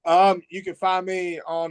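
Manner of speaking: holding back a laugh; suppressed giggle in the voice; trying not to laugh. Real, not acted. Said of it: "I'm trying not to laugh".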